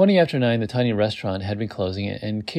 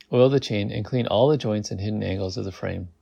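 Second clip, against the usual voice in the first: ordinary delivery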